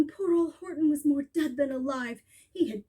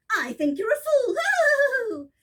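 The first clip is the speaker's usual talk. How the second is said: slow, high sneering voice; mocking high sneer; scornful kangaroo; 7 semitones higher, 4 dB louder, much slower than usual. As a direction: drag it out with contempt.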